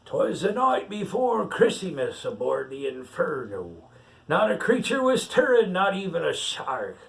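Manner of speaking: pirate reading a picture book aloud; story reading. Acted. Pirate reads the rhyme to the child, storytelling lilt. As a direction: read the verse out like a bedtime tale.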